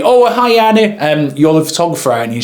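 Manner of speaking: acted eager greeting, starting high; friendly greeting. Videographer introduces himself to the other photographer, friendly greeting.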